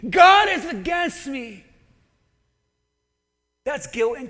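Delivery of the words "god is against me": loud despairing cry; quoting Naomi. Retold or imitated. Preacher quoting Naomi's guilt, loud and despairing. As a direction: declare it with bitter despair. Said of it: "That's a poor self-image".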